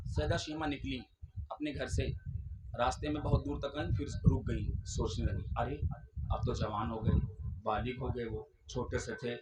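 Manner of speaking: low, hushed worried inner voice; quiet musing. Acted. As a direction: speak it softly as her own doubts. Narrates her anxious inner thoughts. (धीमी चिंतित आवाज़)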